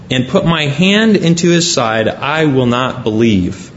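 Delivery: measured, formal Bible reading; solemn reading of the Gospel aloud; scripture reading. Acted. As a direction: read the passage to the congregation with weight. Rereads verse twenty-five.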